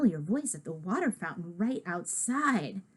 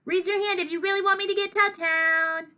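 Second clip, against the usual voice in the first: put-on much higher, playful kid voice; giggly pleading; 9 semitones higher than usual. Tickled George pleading, higher playful voice. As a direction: ask it giddily like a tickled child.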